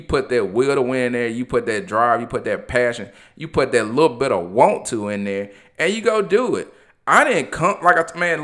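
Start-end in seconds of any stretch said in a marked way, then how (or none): 5.8-8.4 rising emotion breaking into the words; getting emotional. Real, not acted. Podcast host telling listeners his story, voice welling up high. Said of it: "I'm getting emotional".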